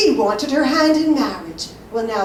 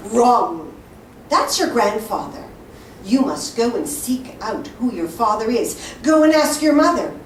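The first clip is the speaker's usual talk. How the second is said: louder sneering troublemaker; taunting; 4 dB louder than usual. Acted. Troublemaker taunts boy about his father, sneering. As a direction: jab the question at the boy.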